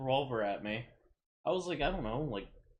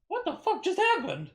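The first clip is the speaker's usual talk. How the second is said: very high, louder bewildered cry; teen left shaking after the gunman walks off; stunned disbelief; 6 dB louder than usual. Retold or imitated. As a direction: gasp it out in disbelief. Teen after dad leaves.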